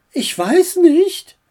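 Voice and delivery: high, drawn-out brush-off; slow singsong with a rising end; feigned unconcern. A narrator's reading. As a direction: act as if it's none of your business. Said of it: "als würde es ihr nichts angehen".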